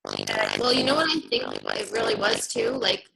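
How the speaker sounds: glitchy robotic call audio; distorted robot voice over the line. Real, not acted. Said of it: "like a robot".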